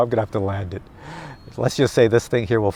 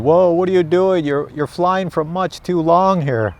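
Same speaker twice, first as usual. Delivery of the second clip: lightly alarmed radio, raised pitch; talking radio; 5 semitones higher than usual. Retold or imitated. Radio warning the pilot about a long flight, mock alarm. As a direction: scold as the radio, higher and drawn out at the end. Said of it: "Even my radio's going".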